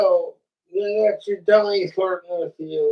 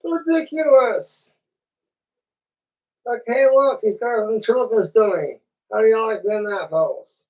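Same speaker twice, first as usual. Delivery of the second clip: mocking voice; 2 semitones higher than usual. Continues mocking voice.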